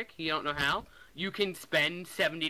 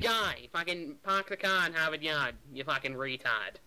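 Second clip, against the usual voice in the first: put-on Boston accent. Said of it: "with a Boston accent".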